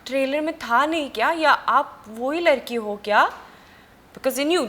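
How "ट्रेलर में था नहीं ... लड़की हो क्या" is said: excited, higher voice of a surprised father; lightly voiced dad, fast and raised; retold father. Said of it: "मेरे father मुझे call कर रहे". (ऊँची आवाज़ में हैरान पिता की नकल)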